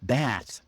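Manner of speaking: "Bath" with the flat front "a" of "cat"; American short A. Shown as a demonstration. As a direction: say "Bath" American-style with a dropped jaw. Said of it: "with a short A sound".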